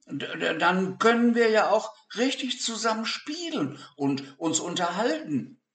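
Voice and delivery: put-on high excited boy voice. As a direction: burst out with a child's excitement. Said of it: "rief Peter".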